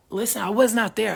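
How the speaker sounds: defensive retold protest; insistent. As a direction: insist you weren't there. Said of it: "I said".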